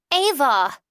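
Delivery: long whiny call, high and loud. Acted. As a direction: stretch the first A, whining. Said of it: "elongates the first A ... super whiny voice".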